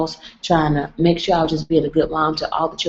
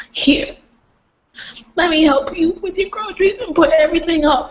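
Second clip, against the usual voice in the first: kind helper; 11 semitones higher than usual. Retold or imitated. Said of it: "one of the wives was just like".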